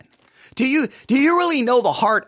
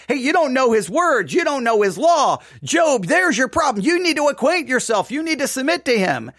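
animated, higher-pitched lecturing of a friend; mock scolding; 4 semitones higher than usual. Eliphaz telling Job what his problem is, mock scolding. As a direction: lay into him like a know-it-all adviser.

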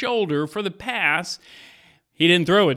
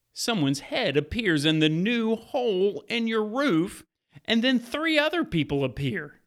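story narration. Acted. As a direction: draw the listener into the scene. Retells Bible story over music.

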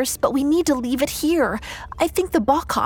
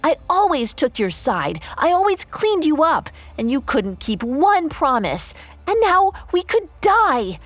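shouting back; 6 semitones higher than usual. Acted. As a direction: yell it back at him, then let it sink. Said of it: "Gisela shouted back".

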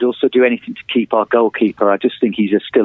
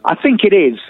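hesitant; 8 semitones higher than usual. Real, not acted. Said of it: "you can see it's slightly hesitant".

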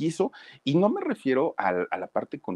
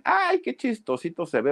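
mocking kids; 11 semitones higher than usual. Mocking classmates voiced.

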